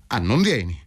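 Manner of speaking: a lightly voiced cold menace; cold threat. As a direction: let the threat sit under the question. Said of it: "Il tono era di fredda minaccia".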